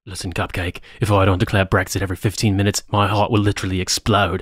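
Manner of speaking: gravelly British tough guy; Jason Statham voice. Pretend. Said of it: "I'm doing, uh, Jason Statham".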